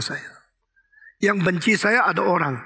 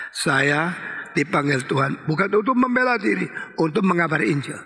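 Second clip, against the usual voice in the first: "dipanggil Tuhan bukan untuk membela diri" raised as a chant-along line; leading group recitation. Shown as a demonstration. Preacher counts the congregation in to repeat, leading group recitation. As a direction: recite it for everyone to say together. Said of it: "Eh, semua, satu, dua, tiga".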